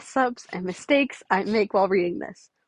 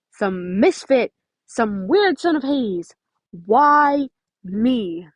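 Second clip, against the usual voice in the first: slow, louder bitter outburst; yelling; 4 dB louder, much slower than usual. Acted. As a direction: fling the words out as a hurt yell. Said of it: "Nico yelled".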